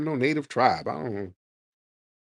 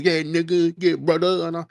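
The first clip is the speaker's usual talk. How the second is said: mocking impression of outsiders faking a black accent, pitched up; mock fake brotherly talk; 5 semitones higher than usual. Host mocking people who fake a black accent, in a pitched-up voice. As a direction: ham up a wannabe saying yeah brother. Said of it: "when y'all hear these people".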